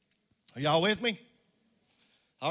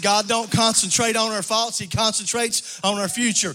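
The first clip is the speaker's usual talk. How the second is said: repeated for emphasis; 2 semitones higher, 7 dB louder than usual. Shown as a demonstration. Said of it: "I said".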